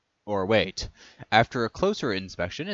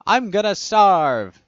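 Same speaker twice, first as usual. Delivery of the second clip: a slow, drawn-out scream, much higher and louder; 10 semitones higher, 11 dB louder, slower than usual. A narrator's reading. Prisoner Alex screams at the guard about the food. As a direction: wail it out like you're starving. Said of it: "screams Alex".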